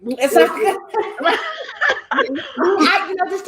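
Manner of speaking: bursts into a high laugh. Real, not acted. Guest laughing as she takes the floor. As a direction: laugh it off, a little embarrassed.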